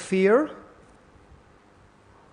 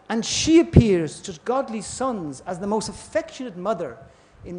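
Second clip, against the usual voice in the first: re-reading slowly. Shown as a demonstration. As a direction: savour each phrase, slowing on "at once subsides". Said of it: "I'll read that again".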